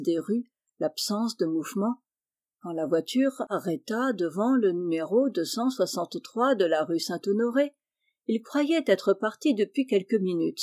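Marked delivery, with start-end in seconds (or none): none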